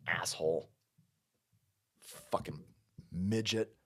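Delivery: hushed, breathy aside muttered under the breath; whispered insult. Real, not acted. Streamer mutters an insult to his chat, whispered. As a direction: slip it in quietly like a secret dig.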